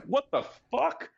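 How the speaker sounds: high-pitched, drawn-out replay of losing it; retold outburst. Founder retelling his reaction to the banker's price, incredulous outburst. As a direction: re-enact losing it, pitch way up, stretching the words. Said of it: "that's when I lost my shit".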